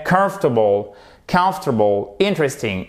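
comfortable and interesting with first-syllable stress; pronunciation review. Shown as a demonstration. Teacher recapping both words. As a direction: run through both words crisply.

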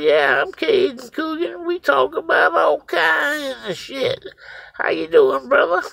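high, loud, boastful reply; retold loud greeting. Storyteller introduces himself to the boy, loud greeting.

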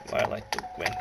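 breathy dramatic whisper; mock mysterious whisper. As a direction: hush it like a secret. Jokey dramatic aside.

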